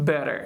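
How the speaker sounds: BETTER with T tapped like a quick D; American BETTER, light fast tap in the middle; flap T. Shown as a demonstration. Teacher introduces the next word, BETTER with flapped T. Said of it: "pronounce like D".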